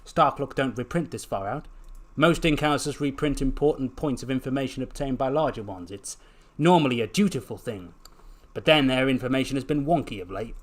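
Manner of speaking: lightly voiced Scottish shopkeeper; grumbling chopper, a hint of Scottish; Scottish-sounding chopper. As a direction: explain it with a slight Scottish lilt.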